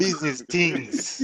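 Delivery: slow Jamaican accent. Shown as a demonstration. Channel owner says his channel's name, Jamaican accent. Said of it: "say it with a Jamaican accent".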